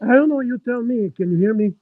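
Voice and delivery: muffled through a bad mic; muffled, like through a wall. Real, not acted. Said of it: "it's muffled".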